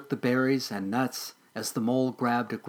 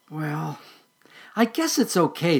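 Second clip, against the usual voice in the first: squirrel voice; 5 semitones higher, 4 dB louder than usual. Acted. Squirrel character voice.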